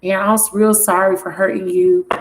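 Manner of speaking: lightly put-on man's voice; a hint of a man pleading with his girl. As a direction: read it as the apologetic man. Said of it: "gonna read it in his voice".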